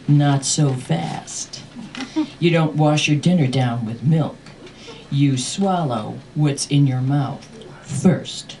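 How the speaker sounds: slow, measured mock-stern order; lightly voiced strict dad, unhurried; stern father. Father stopping child from grabbing milk, slow and stern.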